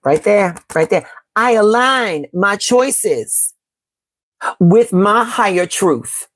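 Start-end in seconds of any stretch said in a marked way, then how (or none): 1.3-6.3 very slow, drawn-out affirmation; slow mantra in two breaths; slower affirmation. Shown as a demonstration. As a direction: stretch every word like a prayer. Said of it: "we're going to affirm".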